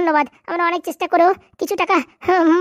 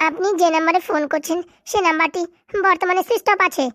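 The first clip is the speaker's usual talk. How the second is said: slow, formal recorded-message read; phone operator voice. Acted. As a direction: mimic the network announcement. Fake operator switched-off message.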